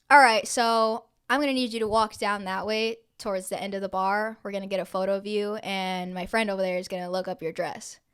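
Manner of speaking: deadpan retold instruction; matter-of-fact, no hint of joking; straight-faced. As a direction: deliver it seriously, pitch settling as you go. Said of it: "he said it to me with, like, a straight face".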